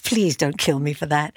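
ordinary talk, nothing marked

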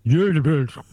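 Gyökeres said Swedish-style, opening on a Y sound; attempted native pronunciation. Shown as a demonstration. Guest answers host's pronunciation question, attempted native pronunciation. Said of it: "how do you pronounce Gyökeres".

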